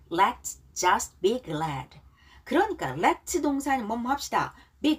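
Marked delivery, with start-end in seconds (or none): 0.1-2.0 very slow, each word clear; slow repeat after me. Shown as a demonstration. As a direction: model it slowly for learners to copy. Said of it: "자, 발음 따라하기". (천천히 따라 읽기)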